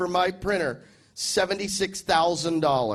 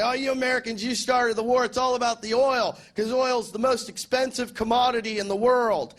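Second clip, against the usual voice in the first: higher, whining accusation; imitating an accuser, higher; mock yelling foreigner; 5 semitones higher than usual. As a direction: ham up a nagging critic, pitched up. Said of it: "They yell at me like".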